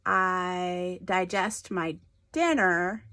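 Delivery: "digest" with the weight on its second syllable; stress on second syllable. Shown as a demonstration. Teacher showing pupils the verb for eating, stress on second syllable of "digest". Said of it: "emphasis on the second syllable".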